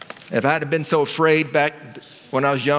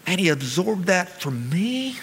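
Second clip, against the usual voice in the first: slow, softer amazement; awed wonder; 3 semitones higher, 4 dB quieter, slower than usual. Retold or imitated. Son amazed at father's sacrifice, slow hushed wonder. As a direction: marvel at what dad did for him, slowly. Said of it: "I looked at my dad with like".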